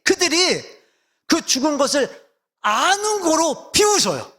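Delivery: rising preaching intensity. Real, not acted. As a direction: preach it with mounting passion. (고조된 설교조로 힘주어)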